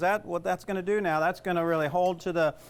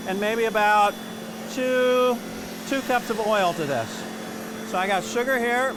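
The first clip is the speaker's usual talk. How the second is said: hammed-up TV chef; 4 semitones higher, 3 dB louder than usual. Cook to the camera, hamming up a TV chef. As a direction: play the big-time TV chef for the camera. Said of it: "That was acting".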